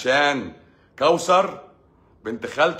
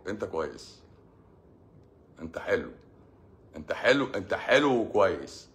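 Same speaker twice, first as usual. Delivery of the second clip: reassuring; 3 semitones lower than usual. Real, not acted. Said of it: "reassuring listener".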